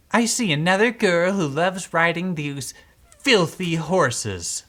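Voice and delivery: sneering. Acted. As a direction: look down your nose and sneer. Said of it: "Maricela said with a sneer".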